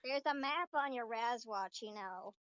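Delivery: lightly voiced robot child; a hint of kiddie animatronic; helpful little robot, lightly put on; childish robotic voice. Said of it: "a very childish robotic voice".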